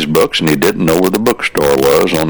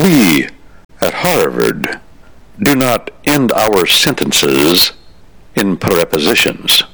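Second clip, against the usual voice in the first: put-on slow, lofty Harvard accent, lightly done; lightly mock a stuffy Harvard accent; slower than usual. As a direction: Harvard upperclassman correcting a freshman in a lightly hammed Harvard accent. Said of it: "in his honed Harvard accent".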